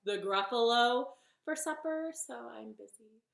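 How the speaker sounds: loud, high, hesitant opening; nervous bunny. Acted. Bunny declines snake's supper, startled and hesitant. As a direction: stall brightly, then trail to an excuse. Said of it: "And the bunny said".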